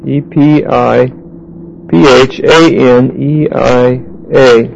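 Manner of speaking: slow, letter by letter, E P I P H A N E I A; spelling it out. Shown as a demonstration. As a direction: dictate each letter slowly to the class.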